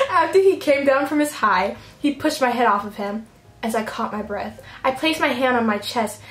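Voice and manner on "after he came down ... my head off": reading through laughter; laughing. Real, not acted. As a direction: giggle through the line.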